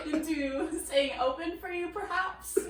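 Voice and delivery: giggling through a teasing question; can barely get the words out for laughing; laughing while teasing. Real, not acted. Co-host teasing Todd about the ice cream shop, laughing throughout.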